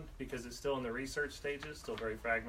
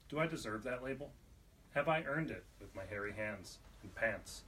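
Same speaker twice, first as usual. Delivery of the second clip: measured spoken-word delivery, deliberate pauses; poetry reading; 3 dB louder than usual. Acted. Poet reading own poem on identity to a small audience, measured poetry reading. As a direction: read your poem aloud, letting each line land.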